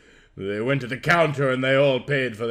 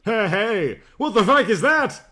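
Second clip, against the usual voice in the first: screaming; 6 semitones higher, 3 dB louder than usual. A narrator's reading. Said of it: "Mina-chan screamed".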